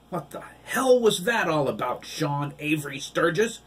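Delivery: high, loud furious demand; full-name scolding; angry hiss. A narrator's reading. Father demands answers from his son, high and loud. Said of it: "he hissed".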